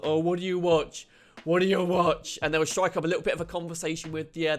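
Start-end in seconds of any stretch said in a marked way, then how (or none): 0.0-2.4 annoying agent. Retold or imitated. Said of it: "really annoying questions like".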